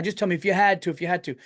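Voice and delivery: imitated insistent coaxing; retold prying. Nosy stranger cornering a shopper, mock prying. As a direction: press for the answer, as a nosy stranger would. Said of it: "really prying".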